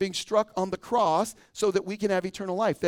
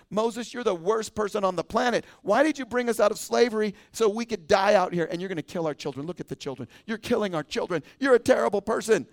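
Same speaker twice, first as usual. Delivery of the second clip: whiny complaining crowd; 3 semitones higher, 3 dB louder than usual. Retold or imitated. Mocking the complaining Israelites.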